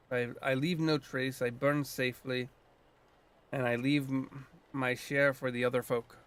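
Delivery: put-on light Scottish lilt for the old druid; a hint of Scottish brogue, gruff and proud; lightly voiced Scottish druid; Scottish accent. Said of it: "I'm giving him a Scottish accent".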